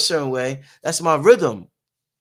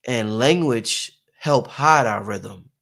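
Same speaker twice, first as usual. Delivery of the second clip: slow emphasis; 5 semitones lower, slower than usual. Shown as a demonstration. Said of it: "let me say this again".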